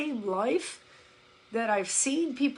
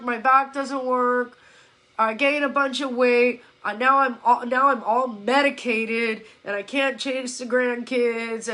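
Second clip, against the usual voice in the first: imitating litany of complaints; 3 dB louder than usual. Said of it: "I can say it like that".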